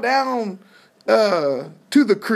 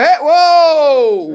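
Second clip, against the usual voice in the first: loud, laughing "whoa!"; startled protest; 2 semitones higher, 7 dB louder than usual. Acted. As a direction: jump in with an alarmed objection. Mary and Martha protest.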